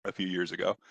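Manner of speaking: short of breath between coughs; talking with a tickly, coughing throat. Real, not acted. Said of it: "stop before I cough anymore and hopefully catch my breath".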